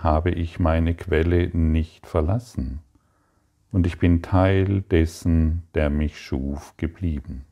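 earnest, lifted prayer voice. Acted. Teacher prays aloud to the Father, earnest and heartfelt. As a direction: pray it with devotion to the Father.

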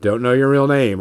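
sudden recognition. Retold or imitated. Gonzo recognizing a viewer at Gen Con, surprised. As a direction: jump up in pitch as it clicks. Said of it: "I'm like".

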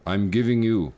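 put-on slow, measured take on a Native American accent; lightly hammed-up Native American accent; mock Native American accent. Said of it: "the Native American accent".

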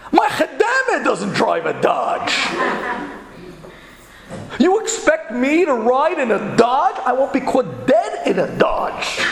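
high, drawn-out snobbish indignation; mock outrage. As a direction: act appalled at being offered such a car. Partner outraged at offered car.

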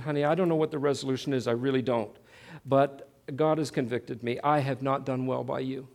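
low, humbled confession to his wife; repentant apology. Retold or imitated.

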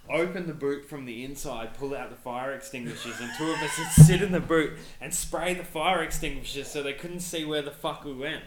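loud, laughing through the tale; excited laughing shout. Real, not acted. Friend retelling a wild car chase, laughing and shouting. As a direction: shout it out, cracking up as you go.

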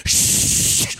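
long, forceful "shhh"; loud shush. Acted. Hordes of hell silencing the believer, loud shush. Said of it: "try and close in around you and say".

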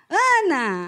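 familiar call of a name down the phone; just say her name like she knows you; mom calling her daughter. Pretend. Mother phoning daughter Ana, familiar call.

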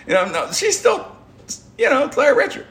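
still laughing. Real, not acted. Laughing while retelling.

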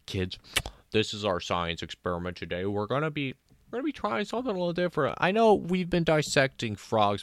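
lightly voiced teacher, brisk and upbeat; a hint of a chipper teacher addressing the class; mock science teacher. Teacher announces the experiment to the kids, lightly hammed.

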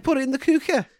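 "cooker" pitched high with an exaggerated oo; exaggerated pronunciation. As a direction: play up the oo in "cooker". Playing with the mocked pronunciation.

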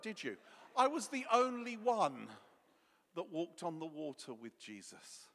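smug, loud gloating; smug boasting. Retold or imitated. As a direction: rub it in, smug. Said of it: "I bet he said something like this".

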